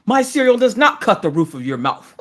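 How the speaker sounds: a quote pushed out through laughter; laughing mock brand slogan; laughing while quoting. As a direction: giggle through the line. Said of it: "Mister Coffee says".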